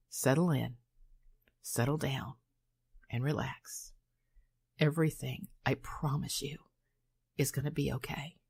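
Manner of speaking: gentle trance-like reassurance; soothing reassurance. Real, not acted. Hypnotist soothing the listener.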